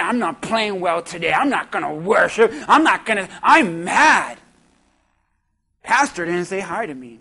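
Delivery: sulky churchgoer. Retold or imitated. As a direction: pout it out like a sulking member. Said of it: "and you're like".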